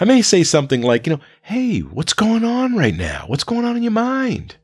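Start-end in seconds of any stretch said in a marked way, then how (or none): 1.4-4.6 soft, high-pitched, unhurried check-in; gently ask, keeping it calm and light. Shown as a demonstration. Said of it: "in a calm voice".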